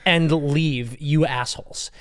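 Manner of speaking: mock angry outburst. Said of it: "I was this close to going".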